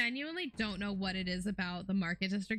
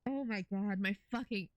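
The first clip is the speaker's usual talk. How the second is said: strained after choking on water; recovering from choking on water. Real, not acted. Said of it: "I'm apparently choking on water".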